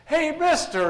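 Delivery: very high, loud parrot call; squawking parrot. Acted. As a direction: screech it like a taunting parrot. Parrot calls out third time.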